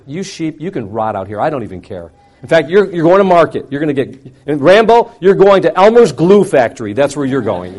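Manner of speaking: mock tirade at a stubborn sheep; retold scolding. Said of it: "talk to the sheep like that".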